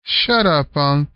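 put-on boy crying out. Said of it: "cried Cliff".

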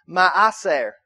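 ma'aser said slowly, stressed in the middle; slow Hebrew pronunciation. Shown as a demonstration. Pastor teaching the congregation a Hebrew word, "ma'aser" pronounced slowly. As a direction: sound out "ma'aser" slowly for the listeners. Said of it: "the Hebrew word here".

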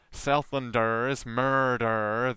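"Southlanders murder" slowly, with exaggerated rolled Rs; wacky rolling R. Shown as a demonstration. Southlander joking about mangling English, exaggerated rolling R. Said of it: "some wacky rolling".

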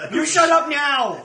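hammed-up fake Chinese accent, slow and loud; mock Chinese accent. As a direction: bark it like a bad caricature accent. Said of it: "Slave owner is turning Chinese".

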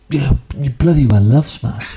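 put-on sing-song Welsh accent. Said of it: "love it in a Welsh accent".

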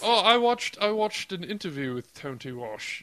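put-on posh British accent. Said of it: "cigarette type British".

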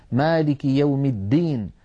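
"الدين" with a firm, voiced d; clear dal. Shown as a demonstration. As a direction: give "الدين" a distinct d, no hint of t. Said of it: "فلا بد من بيان الدال".

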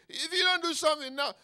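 high, loud insistence; urgent plea. Acted. Repeats David's urgent plea.

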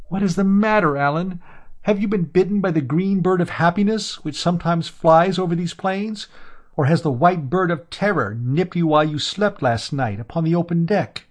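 a teasing, curious question to Alan; Amra, gently teasing. A narrator's reading. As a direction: Amra asks Alan what has got into him, teasing. Narrator voices Amra.

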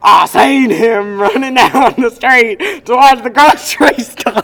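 loud, slow hillbilly drawl with laughter; southern hillbilly accent. Acted. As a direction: holler it like a country bumpkin. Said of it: "I wanna do my southern accent".

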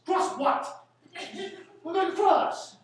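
loud, high, laughing mockery of going across; mocking the expression. Lecturer mocking a phrase he hates, laughing loudly. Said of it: "I hate people call it cross".

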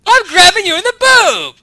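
high shouted warning; loud warning shout. Shown as a demonstration. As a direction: yell it as a warning. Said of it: "You're actually kind of indignant about it".

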